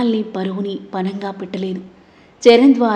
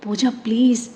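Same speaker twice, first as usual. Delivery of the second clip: pleading; 3 semitones higher, slower than usual. Acted. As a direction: beg her to break the silence. Begging her to speak. (బతిమాలుతూ please)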